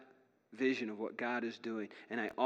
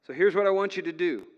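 emphatic preaching; 5 semitones higher, 10 dB louder than usual. Retold or imitated. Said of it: "what the Message paraphrase says".

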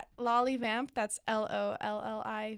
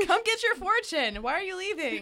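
fortune teller voice; 7 semitones higher, 5 dB louder than usual. Pretend. Plays the fortune teller at event.

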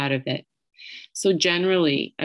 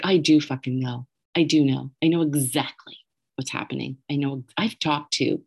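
imitated angry friend. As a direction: insist firmly, as the angry friend. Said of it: "her anger through the phone".

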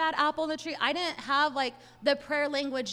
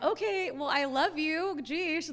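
exasperated; 4 semitones higher, slower than usual. Retold or imitated. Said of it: "And I'm like".

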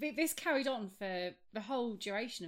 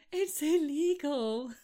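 nervous whisper; 7 semitones higher, 7 dB louder, much slower than usual. Retold or imitated. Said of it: "And went".

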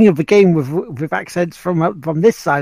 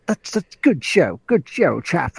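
polite English sportsman's praise; mock English accent; slower than usual. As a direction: congratulate like an old-school English chap.

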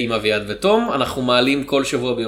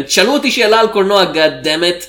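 shouting demand; 4 semitones higher, 4 dB louder than usual. Retold or imitated. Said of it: "ואמרתי להם".

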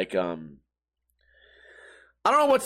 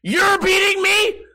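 stunned disbelief; 14 semitones higher, 6 dB louder, slower than usual. Retold or imitated. Stunned the drunk man wins.

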